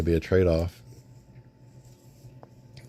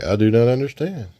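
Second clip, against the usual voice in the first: puzzled hero; 4 semitones higher, 4 dB louder than usual. Retold or imitated. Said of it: "He-Man's like".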